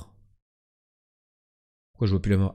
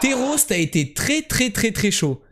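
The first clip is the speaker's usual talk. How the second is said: excited; 9 semitones higher than usual. Real, not acted. Excited praise of teammate.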